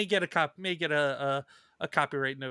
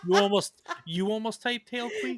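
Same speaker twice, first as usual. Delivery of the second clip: laughing disbelief; 5 semitones higher than usual. Real, not acted. Reacting to the typed joke.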